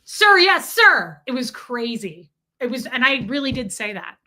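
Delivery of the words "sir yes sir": loud, high, snappy recruit's reply; mock military recruit. His crew answering the drill sergeant, mock recruit shout. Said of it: "I felt like a drill sergeant".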